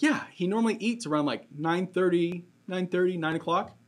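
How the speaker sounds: a hint of a matter-of-fact wife, fast and high; imitating wife. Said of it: "She's like".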